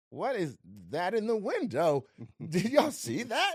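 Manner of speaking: putting on character voices. Retold or imitated. Actor reading everyone's lines at rehearsal, playful characters. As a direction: play each part, breaking into a laugh. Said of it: "I do all the characters".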